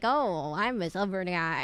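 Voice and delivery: put-on Southern accent; lightly voiced Southern guy. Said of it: "I gave him a Southern accent".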